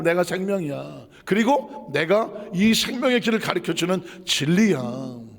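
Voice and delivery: ordinary talk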